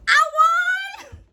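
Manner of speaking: put-on a child's burst of pride; proud triumph. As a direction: exclaim it in triumph. Child proudly announces winning contest.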